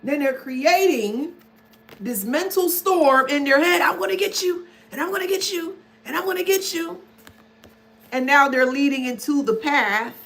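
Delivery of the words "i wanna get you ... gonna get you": mock narcissist voice. Voicing the narcissist's thoughts, repeated.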